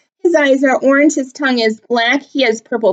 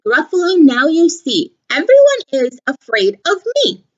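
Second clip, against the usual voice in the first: smug mouse; 7 semitones higher than usual. Acted. Mouse boasting.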